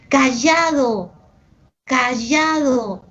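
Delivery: "Callado, callado" drawn out slowly, both with the same y sound for ll; Lima pronunciation, identical. Shown as a demonstration. Teacher showing two Peruvian homonyms, both "callado" pronounced identically. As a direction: say "callado" twice alike, ll as y, Lima style. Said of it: "la pronunciamos en Lima igualitas".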